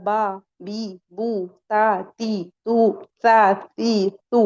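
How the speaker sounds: با، بی، بو with pure Arabic aa, ee, oo; maroof vowels. Shown as a demonstration. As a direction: chant each syllable with clean long vowels. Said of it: "یہاں کیا چلے گا؟". (با، بی، بو خالص عربی آوازوں کے ساتھ، معروف)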